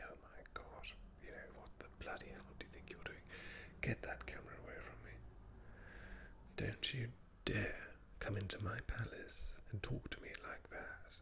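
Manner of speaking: posh royal hissed whisper; whispering King Charles. Acted. A royal scolding someone with a camera, posh whisper. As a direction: whisper indignantly in a posh accent. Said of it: "King Charles was possibly whispering, he'd say".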